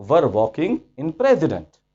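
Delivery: slow, drawn-out; mock literal translation. Shown as a demonstration. Teacher mocks word-for-word translation slowly. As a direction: were walking in president, each word stretched. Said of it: "क्या ख्याल है".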